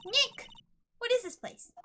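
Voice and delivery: high, eager calling voice; excitable young sidekick, curious. Acted. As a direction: call him over in a high voice.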